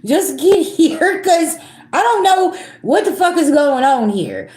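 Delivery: high, pleading, half-laughing panic; frantic plea. Retold or imitated. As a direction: beg them to hurry, laughing nervously. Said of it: "I was like".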